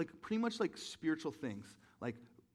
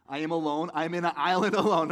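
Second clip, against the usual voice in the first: mock lament; 2 semitones higher, 12 dB louder than usual. Real, not acted. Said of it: "mock self-pity joke".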